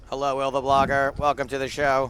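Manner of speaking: loud, bright host welcome; hearty welcome. Real, not acted. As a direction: greet him big. Greeting guest on stream.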